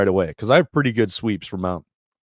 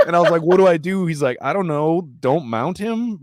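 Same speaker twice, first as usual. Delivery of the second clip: giggly high voice; 9 semitones higher, 4 dB louder than usual. Real, not acted. Still laughing through story.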